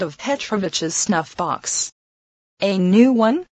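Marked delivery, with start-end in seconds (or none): 2.6-3.5 dazed, as in a dream. A narrator's reading. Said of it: "as if still in a dream".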